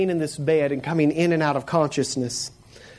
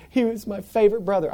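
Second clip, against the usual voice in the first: higher-pitched mild mock wail; mock crying; 5 semitones higher than usual. Sister crying over her hurt brother, mildly mock-tearful. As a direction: lightly imitate a crying sister. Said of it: "and they're crying".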